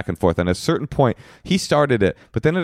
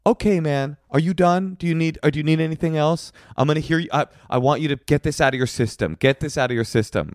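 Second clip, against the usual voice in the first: mock calm placating; 5 semitones higher than usual. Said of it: "he switched his tactics".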